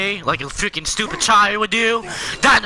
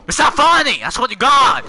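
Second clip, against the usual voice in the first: fed-up shouting at a pest; angry yelling; 2 semitones higher than usual. Real, not acted. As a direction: yell in real irritation. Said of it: "Stop yelling. My ears hurt".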